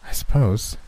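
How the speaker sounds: a touch hesitant and measured; slowly. A narrator's reading. Davidson works out what happened, speaking slowly. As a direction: say it with mild deliberation. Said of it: "said he slowly".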